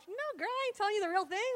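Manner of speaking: high-pitched sassy refusal; mock indignant retort. Man refusing to tell his scheming girlfriend, mock indignant. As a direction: swoop up high in playful disbelief.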